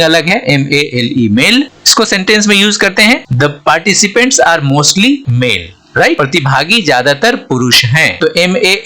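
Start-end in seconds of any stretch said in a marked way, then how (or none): 3.3-5.7 very slow, word by word, like dictation; slow example reading. Shown as a demonstration. Teacher reading the example sentence to students, very slow. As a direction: read it out slowly so students follow.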